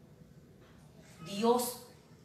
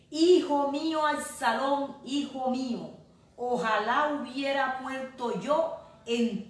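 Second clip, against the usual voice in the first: weeping lament; 5 semitones higher, 5 dB louder than usual. Acted. Preacher voicing King David weeping over his dead son, anguished wail. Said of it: "lloraba y decía".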